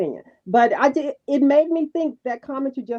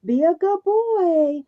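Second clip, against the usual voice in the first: put-on slow, lightly higher coaxing of a toddler; soft mom voice; 3 semitones higher, slower than usual. Imitating Melody coaxing her baby softly. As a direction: coax a little one gently, a hint of mother. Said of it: "talking to him that way".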